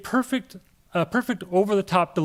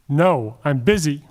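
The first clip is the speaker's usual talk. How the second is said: loud, slow hammy refusal; bad acting; 3 semitones lower, 6 dB louder, slower than usual. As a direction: bark it slowly, overacted. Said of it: "I'm a terrible actor".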